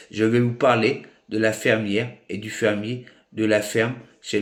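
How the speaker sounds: measured, emphatic recital of a written ad; read-aloud promotional tribute. Acted. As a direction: declaim it phrase by phrase, with deliberate pauses. (lecture déclamée, phrase par phrase)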